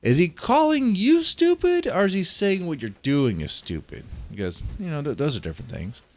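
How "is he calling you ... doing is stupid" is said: acting the interviewer. Caseworker acting out asking a child about dad, much higher voice. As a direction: put the question to the child gently. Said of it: "and I'll ask him".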